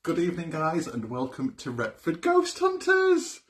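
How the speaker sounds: loud, high host welcome; show-opening announcement. Real, not acted. Host welcoming viewers to the ghost hunt, loud announcement. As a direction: announce the show big, stretching out the name.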